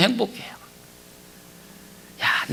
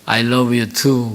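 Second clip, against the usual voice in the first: son's tender reply; 5 semitones lower, much slower than usual. Retold or imitated. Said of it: "이 아들이 그러더라고요".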